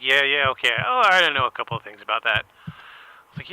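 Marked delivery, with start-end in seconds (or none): 0.0-2.4 Brian's voice. Retold or imitated. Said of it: "He's like".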